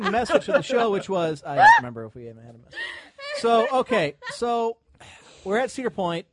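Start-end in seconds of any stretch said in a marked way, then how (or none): 1.4-2.8 fast, high, laughing. Real, not acted. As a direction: laugh it out quickly. Laughing at the show's chaos.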